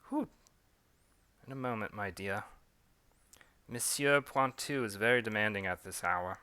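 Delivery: put-on servant in a lightly done British accent; hint of a British butler accent. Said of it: "switching back between a British and French accent".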